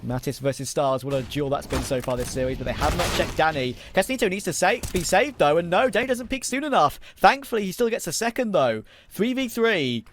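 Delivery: lively play-by-play; esports caster. Acted. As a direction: keep the call rolling over the action. Live play-by-play of a duel.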